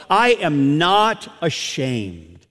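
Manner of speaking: slow, weighty "I am not ashamed"; emphatic climax. Retold or imitated. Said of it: "concludes it with this beautiful crescendo".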